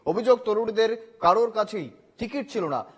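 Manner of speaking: punchy headline delivery with falling phrase ends; emphatic TV news bulletin read. Acted. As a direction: read out the top story as a news anchor. Anchor reads the headlines.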